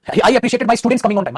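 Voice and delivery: slow, loud dictation for the class; dictating each word slowly. Shown as a demonstration. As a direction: spell it out slowly for students to copy. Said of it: "ये नहीं बेटा".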